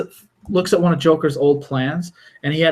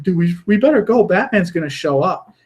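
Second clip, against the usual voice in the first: nervous henchman; 4 semitones higher than usual. Retold or imitated. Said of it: "the guy's like".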